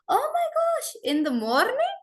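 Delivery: put-on playful Russian-accented excuse, sing-song rises. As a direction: put on a light Russian accent, with "walking" as "wol-king". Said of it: "I had a Russian friend".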